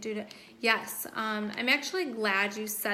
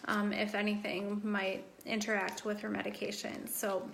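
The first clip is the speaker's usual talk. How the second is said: losing her voice; hoarse, fading voice; 3 dB quieter than usual. Real, not acted. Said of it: "I'm losing my voice".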